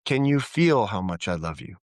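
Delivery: heartfelt question, weight on "feel"; from the heart. Shown as a demonstration. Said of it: "speaking from our heart resonance".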